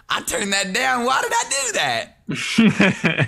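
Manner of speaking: startled loud complaint. Real, not acted. Player caught out by loud music, loud exasperation. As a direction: call out over blaring music, half laughing.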